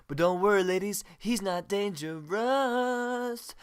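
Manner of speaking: slow, drawn-out announcer read; announcer outro. Acted. Announcer closes Face News over music in a slow, drawn-out read. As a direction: sign off like a late-night announcer.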